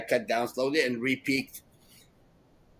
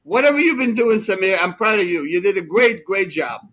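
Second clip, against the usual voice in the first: mock proud praise; 5 semitones higher, 6 dB louder than usual.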